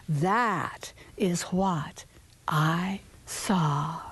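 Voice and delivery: hushed, slow whisper to close the tale. A narrator's reading. Storyteller whispering the ending to listening children. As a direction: breathe the last words as a secret.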